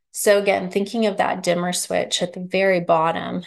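slightly breathless, speaking between breaths. Real, not acted. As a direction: talk while short of breath. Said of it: "Sorry, a little out of breath".

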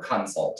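"consult" as two distinct, stressed syllables; over-emphasized consult. Real, not acted. Host joking about own habit, "consult" split into two stressed syllables. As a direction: lean on both syllables of "consult". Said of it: "It's like two distinct syllables".

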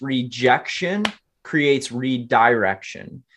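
slow, weighty delivery of "Rejection creates redirection", each word set apart; slow emphatic motto. Shown as a demonstration. Coaching the audience with a slow, weighty motto. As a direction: land the motto slowly like a lesson. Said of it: "I'll leave another word for your audience".

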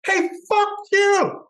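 high, slow, loud put-on yell; imitating an angry guy; mock angry yell. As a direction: drag it out like a hostile stranger. Angry stranger yelling, retold.

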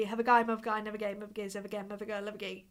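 "Have a guy, mother guy, never gay" in back slang, each syllable reshaped; back slang demo. Shown as a demonstration. Streamer shows chat how her name sounds in back slang. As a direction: say it in North London back slang, words spun inside out. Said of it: "if I were to say".

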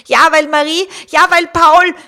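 put-on loud, high-pitched children's protest; aufgeregtes Rufen. A narrator's reading. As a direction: shout it out, blaming the other child. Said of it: "riefen die beiden gleichzeitig". (lautes, empörtes Rufen)

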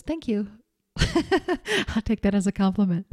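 gently pleased, as a son answering his dad; sweetly. Retold or imitated. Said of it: "my son just sweetly looked back at his dad and goes".

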